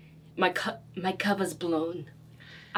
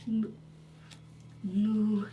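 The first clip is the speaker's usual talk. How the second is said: broken common; 3 semitones higher, 4 dB quieter than usual. Pretend. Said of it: "speak in, like, broken common".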